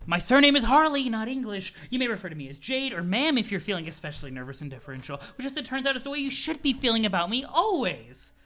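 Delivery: lightly voiced haughty Jade; a hint of a grand, condescending mistress; pompous Jade. Jade lording it over Roxy, lightly pompous. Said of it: "pompous voice".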